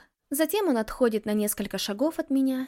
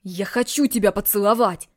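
louder, exasperated outburst; angry shout; 7 dB louder than usual. Acted. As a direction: snap it back at her. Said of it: "Злится он, повышая голос".

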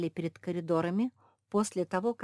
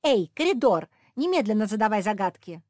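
demanding shout; 5 semitones higher, 11 dB louder than usual. A narrator's reading. Josie demands from corridor.

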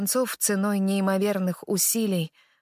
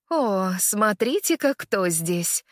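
sinister exclamation; slower than usual. Acted. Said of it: "восклицает королева со зловещей улыбкой".

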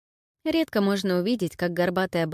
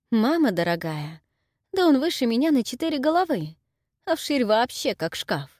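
granny amazed; 6 semitones higher than usual. Acted. Granny marvels at the giant.

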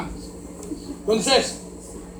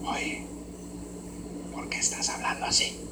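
hushed whisper asking why; whispered question; 13 dB quieter than usual. Retold or imitated. Onlooker asking a murmuring reader why, whispered. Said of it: "hablas así, en voz bajita".

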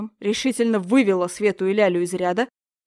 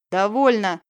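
loud sharp bark; barked command; 6 dB louder, slower than usual. Acted. Teacher silencing pupils, loud barked order. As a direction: bark it to stop them. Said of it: "рявкнула Яна".

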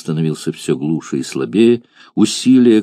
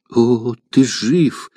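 broken cry; 4 semitones higher than usual. Acted. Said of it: "кричала прерывающимся голосом".

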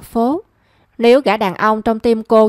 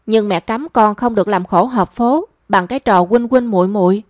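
normal talking voice

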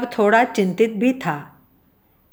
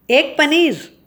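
higher-pitched, intrigued echo question; interested query; 6 semitones higher, slower than usual. A narrator's reading. Food taster hears about the farmer's cheese, interested. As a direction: ask back with piqued interest. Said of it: "दिलचस्पी लेते हुए कहा".

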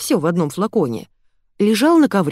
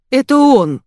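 higher, louder, it hits her; sudden realization; 7 semitones higher, 8 dB louder than usual. A narrator's reading. Heroine realizes who cursed her, alarmed cry. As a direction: blurt it out in alarm.

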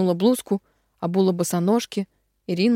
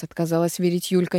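ordinary delivery, nothing marked

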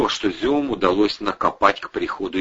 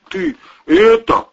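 usual speaking voice

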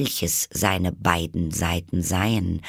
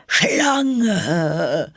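very high, loud bird screech; shrieking pigeon; 11 semitones higher, 5 dB louder than usual. A narrator's reading. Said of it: "kreischte die Taube".

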